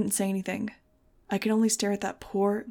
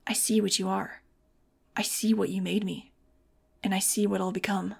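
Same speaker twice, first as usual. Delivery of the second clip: oddly flat voice. Acted. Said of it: "in an oddly flat, quiet voice".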